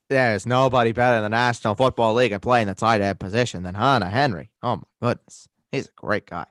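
put-on folksy Minnesotan accent; put-on regional accent. Praising a tight end to co-host, Minnesotan accent. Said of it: "keep this accent".

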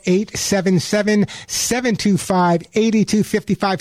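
radio host spells out the phone number slowly; each digit set apart, unhurried and clear; slow announcer number read. Acted. Host giving listeners the call-in number, slow and deliberate.

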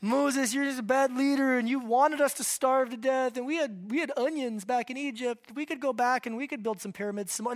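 lightly voiced whiny complaint; a hint of grumbling nagging people; mock-whine the grumbling crowd about Egypt; whining Israelites. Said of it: "They start grumbling and whining".

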